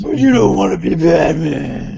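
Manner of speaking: booming metallic robot; deadpan robot villain voice. Pretend. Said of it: "you sound like Ultron".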